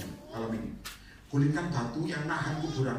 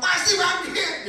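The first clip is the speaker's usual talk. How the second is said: much higher, very slow and loud; Marta drawling; 8 dB louder, much slower than usual. Retold or imitated. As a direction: drag out "Pasti bangkit" high and slow. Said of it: "Marta ngomong".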